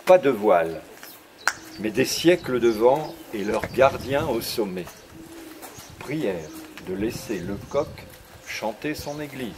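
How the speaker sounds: slow, measured reading with long pauses; poem recitation. Acted. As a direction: savour each line of your own verse. Recites his poem on tour.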